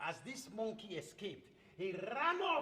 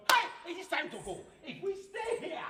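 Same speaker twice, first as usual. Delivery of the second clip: urgent, higher and quick to flee; panicky monkeys; 6 semitones higher, 5 dB louder than usual. Acted. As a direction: hurry the others off.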